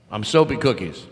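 lightly voiced brassy club comic; brash vaudeville comic. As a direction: work the room like a cheesy comic. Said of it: "I'm Soapy Cookies. I'll be here all week".

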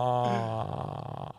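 bass mating call. Pretend. Showing off his bass voice to the babes. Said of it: "So what I do is".

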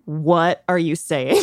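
slow, drawn-out retold yell at the TV; half-hearted yell, breaking into a laugh; mock exasperated yell. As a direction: act out baffled exasperation, stretching the words. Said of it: "I was just yelling at my T V".

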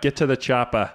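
lightly done Austrian accent; Arnold Schwarzenegger. Shown as a demonstration. Friend suggests a line to try, light Schwarzenegger. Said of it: "You gotta talk like Schwarzenegger".

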